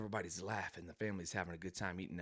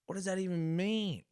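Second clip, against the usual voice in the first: much higher, baffled what; confused; 11 semitones higher, 4 dB louder than usual. Retold or imitated. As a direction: squeak out total confusion. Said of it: "And you're like".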